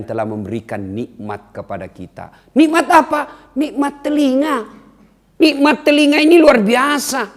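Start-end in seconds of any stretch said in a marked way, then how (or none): 2.5-7.3 higher, louder preaching; fervent exclaim. Real, not acted. Preacher praising the gift of hearing, excited. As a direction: proclaim it with fervor.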